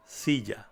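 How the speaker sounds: "Silla" with the double L like a softened English J; soft J in Silla. Shown as a demonstration. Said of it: "J sound in the English word".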